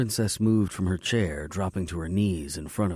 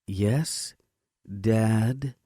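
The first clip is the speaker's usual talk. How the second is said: sarcastic; 4 semitones higher than usual. A narrator's reading. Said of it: "Her words dripped with sarcasm".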